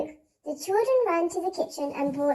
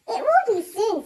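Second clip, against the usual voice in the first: grimly; 6 semitones higher, 6 dB louder than usual. Acted. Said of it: "said Missus Lodge grimly".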